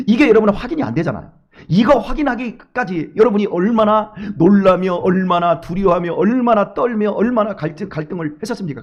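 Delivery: usual speaking voice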